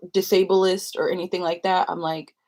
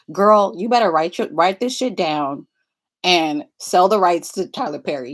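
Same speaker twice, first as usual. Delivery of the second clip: sassy advice; 6 dB louder than usual. Retold or imitated. Sassy advice quoted to mom.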